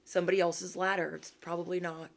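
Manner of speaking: soft, polite brush-off to someone you're dropping; sweetly dismissive. Retold or imitated. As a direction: say it nicely with a bow on it. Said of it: "give them an inhaler with a bow and say".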